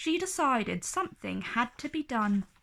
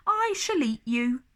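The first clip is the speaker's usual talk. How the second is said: dragon voice; 3 semitones higher than usual. Acted. Dragon threat.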